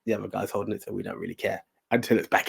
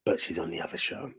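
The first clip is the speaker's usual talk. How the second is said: whisper; 3 semitones lower, 9 dB quieter than usual. Real, not acted. Quiet aside about a wrestler.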